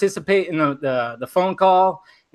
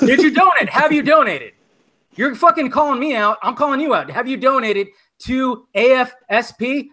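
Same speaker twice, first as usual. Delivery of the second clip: real anger, pitched up; heated accusation; 5 semitones higher than usual. Real, not acted. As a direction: throw the question back hard. Angry counter-accusation in argument.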